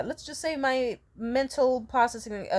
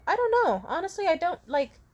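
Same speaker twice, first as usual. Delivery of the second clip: helpless; 8 semitones higher than usual. Retold or imitated. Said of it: "I said something along the lines of".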